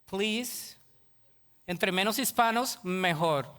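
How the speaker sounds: a hint of haughty new citizen; mock snobbish citizen. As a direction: scorn Hispanics like a sellout. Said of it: "tú ya nada más dices". (un toque de ciudadano altivo y despectivo)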